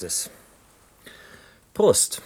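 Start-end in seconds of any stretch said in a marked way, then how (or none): 1.7-2.2 cheerful toast. Acted. Toast with a drink.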